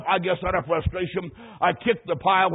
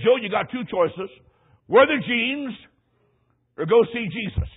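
stern mom; 5 semitones higher, 4 dB louder than usual. Retold or imitated. Mom voiced in story.

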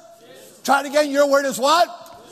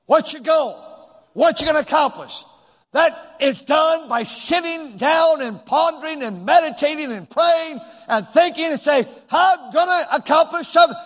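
raised voice with punched words; emphatic preaching; 4 semitones higher than usual. Real, not acted. Preacher urging church to plan, emphatic preaching. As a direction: drive each item home like a preacher.

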